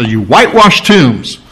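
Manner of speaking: acted denunciation of hypocrites; mild mock condemnation; sharp rebuke. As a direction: rebuke them, rising in force. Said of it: "He didn't respond with a sharp rebuke".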